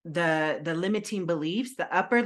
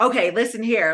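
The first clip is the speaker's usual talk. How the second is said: Wolf of Wall Street; 4 semitones higher, 6 dB louder than usual. Retold or imitated. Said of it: "Wolf on Wall Street where he's like".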